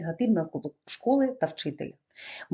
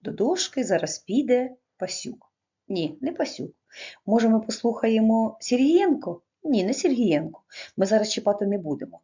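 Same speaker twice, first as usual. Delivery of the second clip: mocking teacher; 2 semitones higher than usual. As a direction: lightly play a cruel teacher toying with the class. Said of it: "так проводив опитування".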